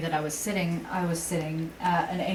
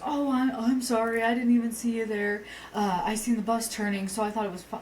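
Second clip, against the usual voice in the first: quoting a flustered apology, pitched up; higher-pitched retold excuse; mock apology; 4 semitones higher than usual. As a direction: lightly imitate an apologetic driver, higher voice. Retold apology of the other driver.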